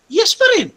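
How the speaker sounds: yes shot up high and loud; a high, loud insistent yes; emphatic yes. Acted. Preacher insisting the answer is still yes, high and loud.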